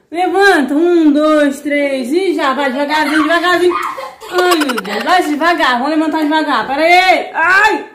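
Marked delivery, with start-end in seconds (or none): 4.3-7.9 straining up with sore muscles; aching as she stands up. Real, not acted. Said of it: "eu tô toda dolorida já por causa do exercício".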